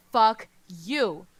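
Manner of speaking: loud, raw shout; furious scream. Acted. Prince screams at his attacker, loud. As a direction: spit it out at full volume. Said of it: "screams in his loudest voice".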